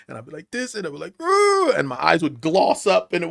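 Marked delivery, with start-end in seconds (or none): 1.2-1.7 imitated welling-up noise.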